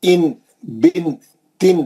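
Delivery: ان، بن، تن stretched with a ringing n; teacher demonstrates double-zer sounds; slow kasratan drill. Shown as a demonstration. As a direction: recite slowly for the class. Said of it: "دو زیر کی تنوین".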